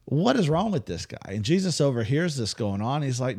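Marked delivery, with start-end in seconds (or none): 0.0-1.2 Jairus ticked off. Retold or imitated. Jairus ranting about Jesus stopping in the road, incredulous. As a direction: scoff at the clown who's wasting time.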